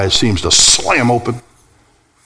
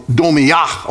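domiyah with the weight on its final "yah"; demonstrated final-syllable emphasis in domiyah; stress on last syllable; 4 semitones higher than usual. Shown as a demonstration. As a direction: land on the end of domiyah. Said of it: "emphasis on the last syllable".

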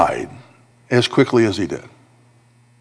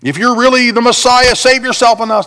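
higher, lightly mocking thief; 10 semitones higher, 4 dB louder than usual. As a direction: sneer at him from the cross, understated. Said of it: "goes on mocking".

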